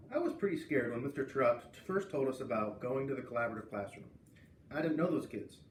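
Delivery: reading a chapter book aloud to a class; steady storytelling read for the kids; story narration. A narrator's reading. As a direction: read aloud to students, voicing Jeffrey's first-person tale. Teacher starts Anna's chapter aloud.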